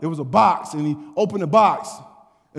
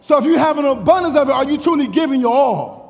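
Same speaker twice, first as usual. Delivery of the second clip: fervent preaching; 8 semitones higher, 4 dB louder than usual. Acted. Preaching with raised voice.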